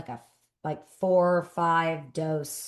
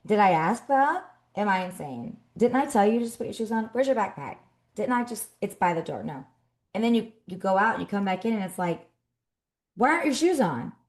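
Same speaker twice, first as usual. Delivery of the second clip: hammed-up disbelief at the kids; exasperated mom; 5 semitones higher than usual. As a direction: ask the kids if you're going insane.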